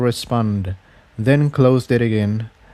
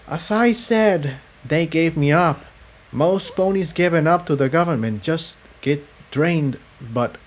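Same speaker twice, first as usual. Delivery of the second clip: subdued confession; 5 semitones higher than usual. Acted. Cerulean resuming her story after falling silent, subdued. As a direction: push through a painful memory.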